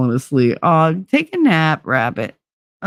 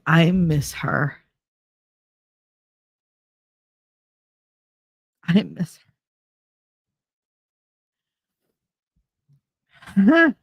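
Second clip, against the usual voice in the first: crying; slower than usual. Real, not acted. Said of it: "Why am I crying?".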